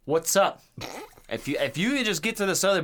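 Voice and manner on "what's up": imitating friend. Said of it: "You'd be like".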